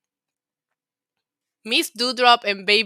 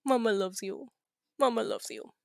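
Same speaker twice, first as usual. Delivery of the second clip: tender to pet; 9 dB quieter than usual. Real, not acted. Soothing her dog as its mama.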